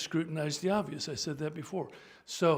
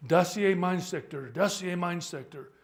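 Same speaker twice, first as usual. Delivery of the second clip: German commander; 5 dB louder than usual. Acted. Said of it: "commander says to him".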